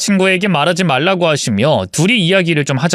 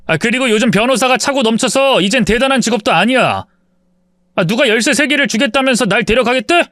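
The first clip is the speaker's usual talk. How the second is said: son snapping back at his mother, higher; angry outburst; 6 semitones higher than usual. A narrator's reading. Son angrily rebuking his greedy mother, higher. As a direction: push back hard and irritated. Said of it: "버럭 화를 내며 말했습니다".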